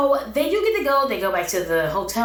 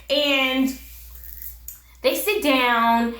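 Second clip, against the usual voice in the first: ordinary delivery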